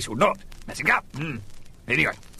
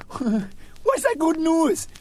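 slow, much higher dazed patient voice; dopey patient; 13 semitones higher, much slower than usual. Acted. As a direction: stretch it out like a man with a tiny brain. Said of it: "He said".

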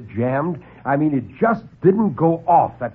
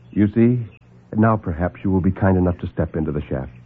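calm the men down, unhurried and superior; suave doctor; 8 semitones lower than usual. Acted. Doctor soothes the alarmed lieutenant, low and suave.

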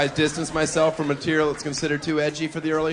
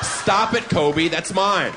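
mock protest; 3 semitones higher, 4 dB louder, slower than usual.

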